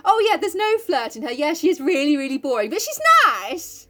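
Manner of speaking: high, sing-song mock praise. Mocking Sally, high voice.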